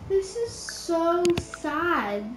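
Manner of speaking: very slow, stretched, rising whine; drawn-out whine. Real, not acted. Gamer repeats her complaint to viewers, slow and whining. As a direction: drag every word out in mock despair.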